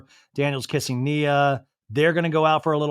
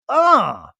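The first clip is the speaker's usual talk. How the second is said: mock groan; 9 semitones higher, 7 dB louder than usual. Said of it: "She groans".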